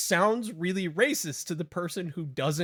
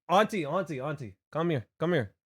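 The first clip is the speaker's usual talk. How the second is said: put-on Hawaiian pidgin accent; 2 semitones higher than usual. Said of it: "when I drop into the accent".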